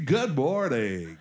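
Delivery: slow, stretched on-air greeting; radio DJ voice. Shown as a demonstration. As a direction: greet listeners like a morning DJ. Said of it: "that was my radio".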